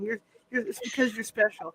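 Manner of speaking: lightly voiced gentle kids' TV host; a hint of soft children's show host; Mister Rogers. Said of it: "I'll do my Mister Rogers thing".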